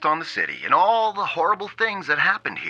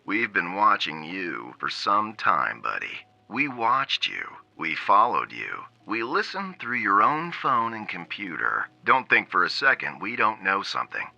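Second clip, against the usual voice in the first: menacing low voice; 4 semitones lower, 3 dB quieter than usual. Acted. Captor turns menacing, low voice.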